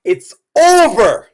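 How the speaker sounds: high, slow, drawn-out mock echo. Host echoing the husband's breakup line, mocking drawl. Echoes the played clip mockingly.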